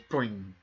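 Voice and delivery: drawn-out cartoon bounce noise; imitated boing. Game master narrating the ball's bounce, imitated boing. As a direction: sound out a springy bounce.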